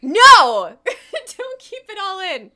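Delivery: loud, laughing no; laughing protest. Real, not acted. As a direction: protest while cracking up.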